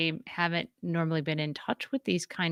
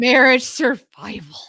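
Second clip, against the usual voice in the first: breathy whispered aside; 4 semitones higher, 8 dB louder than usual. Real, not acted. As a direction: whisper it, almost to yourself. Listing survival mode, whispered.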